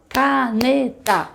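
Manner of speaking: Caneta stretched very slowly with claps; clapped syllables. Shown as a demonstration. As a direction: clap out each syllable of Caneta. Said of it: "A gente vai na palma". (Caneta na palma, sílaba por sílaba)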